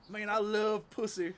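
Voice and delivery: slow imitation of an Alabama comic; Alabama accent. Retelling the open-mic comic's punchline, slow Alabama accent. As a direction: draw the words out, Alabama style. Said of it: "sounded like he was from fucking Alabama".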